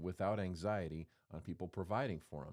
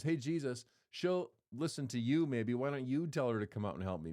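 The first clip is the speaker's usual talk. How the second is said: frustrated plea; 3 semitones higher, 4 dB louder than usual. Retold or imitated. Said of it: "Martha's actually probably frustrated".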